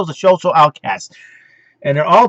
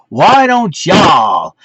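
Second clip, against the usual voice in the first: mock call-out; 4 dB louder, much slower than usual.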